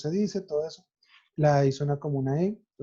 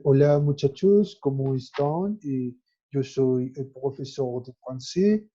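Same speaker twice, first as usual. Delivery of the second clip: put-on Spanish with a light French accent, a bit slower; slower than usual. Teacher imitating a Frenchman speaking Spanish, light French accent. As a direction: play a Frenchman greeting students in Spanish. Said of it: "un francés dijera".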